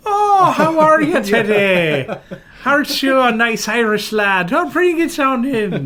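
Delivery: very high, loud, slow fawning voice, laughing; gushing passport officer. Retold or imitated. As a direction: coo over the Irish traveller like a doting auntie. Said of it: "they're like".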